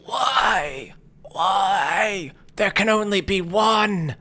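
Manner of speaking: high, pleading howl of the double; the double's anguished cry. Acted. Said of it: "and he says".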